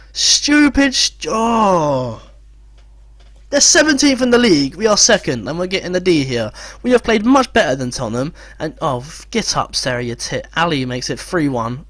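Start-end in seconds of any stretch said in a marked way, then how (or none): 0.1-2.2 high, loud cry of disbelief; exasperated shout at the players; frustrated yell. Real, not acted. Yelling at his players. 3.5-8.3 indignant protest, pitched up; outraged rant. Real, not acted.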